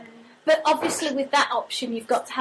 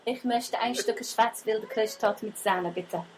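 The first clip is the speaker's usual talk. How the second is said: German; 3 semitones lower, 4 dB quieter than usual. Pretend. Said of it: "say it in German then".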